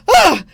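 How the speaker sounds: high, loud startled shriek; a kid's sudden fright scream; child's scream. Acted. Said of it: "The child goes".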